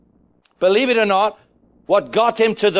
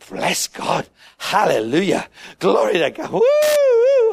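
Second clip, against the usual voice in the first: excited praise; 11 semitones higher than usual. Retold or imitated. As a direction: shout your praise, building to a high woo. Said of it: "get excited and go".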